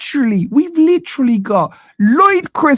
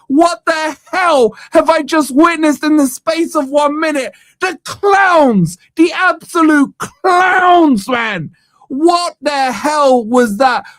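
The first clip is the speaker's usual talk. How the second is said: exasperated rant; 3 semitones higher than usual. Real, not acted. Fan raging at clown show.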